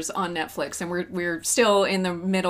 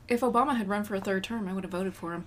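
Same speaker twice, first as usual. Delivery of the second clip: mock white liberal; faster than usual. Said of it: "Or they would say".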